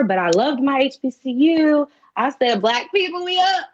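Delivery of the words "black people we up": proud cheer. Retold or imitated. Proud cheer about HBCU.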